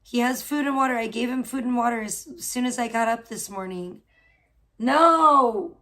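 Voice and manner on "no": loud, sudden No at the cat; sharp No. Real, not acted. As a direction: bark one loud No to stop the cat. Cat pestering her again.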